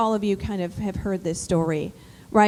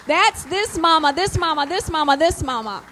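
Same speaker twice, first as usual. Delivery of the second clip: emphatic; 6 semitones higher, 5 dB louder than usual. Real, not acted. Emphatic praise of mothers.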